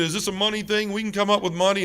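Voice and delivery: mild mock scream of a father losing his temper; retold screaming. Dad losing his temper at the doctor, retold screaming. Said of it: "He started screaming".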